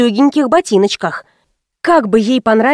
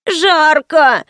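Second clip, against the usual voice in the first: higher, drawn-out moan on «Жарко!»; 5 semitones higher than usual.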